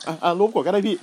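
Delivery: mock meek younger brother. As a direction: play the little brother going along with it. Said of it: "ไอ้น้องก็แบบ".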